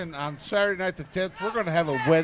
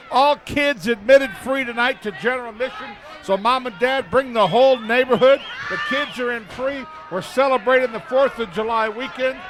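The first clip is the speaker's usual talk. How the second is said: raised, projected announcer pitch; high-energy TV plug; event promo pitch; 4 semitones higher than usual. Real, not acted. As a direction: sell the show to the viewers. Live event promo to viewers.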